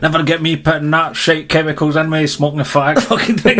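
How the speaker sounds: a hint of a rough Edinburgh hardman, lightly voiced; Begbie. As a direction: quote the film hardman, lightly mimicked. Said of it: "when Begbie's talking about the heroin".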